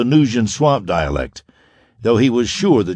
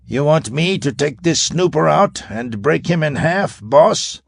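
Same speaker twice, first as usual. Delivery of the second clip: bellowed; 7 semitones higher than usual. A narrator's reading. Grag offers to break the spy in half, bellowing. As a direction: bellow it to the boss. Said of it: "Grag bellowed".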